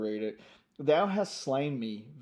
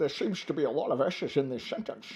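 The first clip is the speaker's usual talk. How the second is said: put-on Scottish film star voice. Joking about the s sounds in the lines: Sean Connery impression. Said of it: "a Connery, a Sean off".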